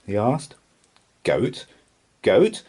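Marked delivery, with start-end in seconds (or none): 2.2-2.6 high, loud startled question; shocked disbelief. A narrator's reading. Pirate chief aghast at goat stew, loud shocked question. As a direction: repeat it louder, aghast.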